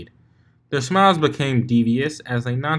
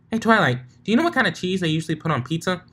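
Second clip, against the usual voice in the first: high, fast, calling across to Twilight; Pinky calling to Twilight across the clouds; 7 semitones higher, much faster than usual. Acted. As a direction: shout the question over, bright and quick.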